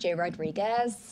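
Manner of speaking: fake American accent, low, soft announcer voice. Taking turns announcing players' names, trying to out-American the other: put-on American announcer accent. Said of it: "We're going to announce them".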